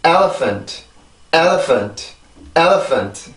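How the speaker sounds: "elephant" in English rhythm, falling away after "el"; pronunciation drill. Shown as a demonstration. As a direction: model "elephant" with stress on the first syllable. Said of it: "읽어보고 넘어갈게요".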